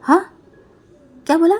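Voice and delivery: heated loud warning; angry threat. Acted. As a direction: threaten him hotly. Quarrel, threatening brother.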